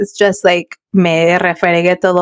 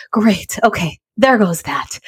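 relieved sigh; 4 dB quieter, slower than usual. Retold or imitated. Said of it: "I said it with such a level of".

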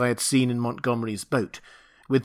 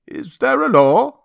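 high, loud pleading question; anxious beast-man; 12 semitones higher, 8 dB louder than usual. Acted. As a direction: beg for an answer like a frightened brute. Man in white repeats.

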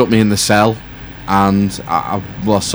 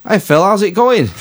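voicing dad; 13 semitones higher, 6 dB louder than usual. Dad voiced on phone call.

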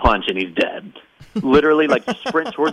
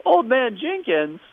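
Scooby-Doo unmasking; 9 semitones higher than usual. Retold or imitated. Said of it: "it's just like".

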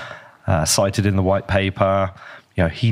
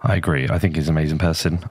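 lower, deeper than usual; 4 semitones lower, faster than usual. Real, not acted. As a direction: hungover deep voice. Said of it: "I sound so deep, deep voice today".

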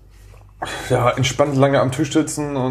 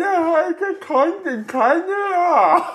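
mouthpiece talk; much slower than usual. Acted. Reading a card through mouthpiece.

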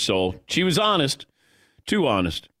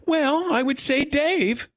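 higher, slow, light mom voice; mimicking mom; 13 semitones higher, slower than usual. A hint of mom calmly naming her favorite son, higher and slow. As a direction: lightly voice the mom's casual verdict. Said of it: "And she go".

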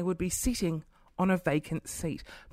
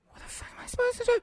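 exasperated; 4 dB quieter, much faster than usual. Retold or imitated. Acts exasperation at the blockage.

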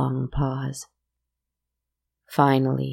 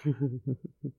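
mocking laugh; 7 dB quieter than usual.

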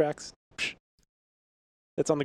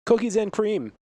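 loud catchphrase; 6 semitones higher, 6 dB louder than usual. Acted. Repeated catchphrase, louder.

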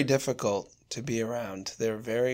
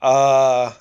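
louder, higher groan of disgust; 4 semitones higher, 10 dB louder than usual. Real, not acted. Cohost recoils at the idea of eating a seagull, in loud disgust.

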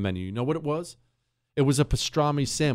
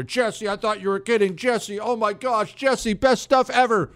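gushing customer; 9 semitones higher than usual. Retold or imitated. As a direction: mimic a thrilled customer, pitched way up. Customers' messages acted out.

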